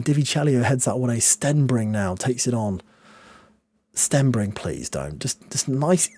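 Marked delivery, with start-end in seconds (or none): 4.5-5.2 low, soft begging; quiet plea. Real, not acted. Fan softly pleading with the opponent not to score. 5.2-6.1 whisper. Real, not acted.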